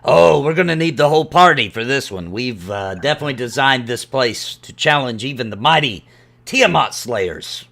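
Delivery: lightly voiced dwarf promoter; Rylan. Dwarf telling the adventurer the whole party is needed, confident. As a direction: talk up the challenge with hearty confidence.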